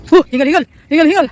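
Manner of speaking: panting, out of breath. Real, not acted. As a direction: speak short of breath from running. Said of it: "May hingal ka dyan".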